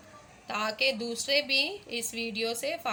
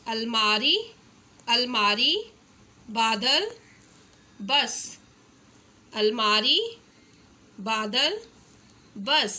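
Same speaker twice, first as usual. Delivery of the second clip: louder, rising classroom call-outs; loud and clear; 4 dB louder, slower than usual. Shown as a demonstration. Teacher calling out picture words for children, loudly. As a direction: project each word to the class. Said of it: "बुलंद आवाज़ में बच्चों को बोलने के लिए कहें".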